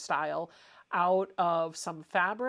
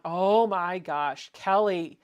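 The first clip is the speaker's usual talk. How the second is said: gushing; 7 dB louder, much slower than usual. Real, not acted. Gushing over viewer's quilt.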